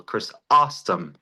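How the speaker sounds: Chrysostom slowly as chris-OS-tom, OS punched; stress on second syllable. Shown as a demonstration. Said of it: "puts the stressor on the second syllable".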